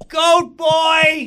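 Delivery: high-pitched aghast repeat; high mock outrage; indignant disbelief. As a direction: throw the name back, appalled. Aghast at being introduced as Goat Boy.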